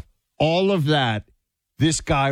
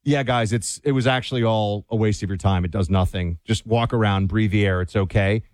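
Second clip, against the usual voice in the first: lower, offhand pretend confession; mock Fauci; 7 semitones lower than usual. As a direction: shrug it all off in a mock Fauci voice. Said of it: "he could give one public statement to say".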